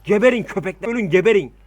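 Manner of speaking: furious yell at the enemy; angry shouting. Real, not acted. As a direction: shout it out, fierce and loud. Commanding troops in siege game.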